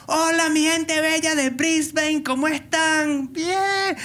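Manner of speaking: bright-pitched stage hello with a long drawn-out ending; re-enacted Spanish show opener; greeting crowd in Spanish. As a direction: work the crowd in Spanish, stretching the last word high. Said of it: "I did my thing in Spanish".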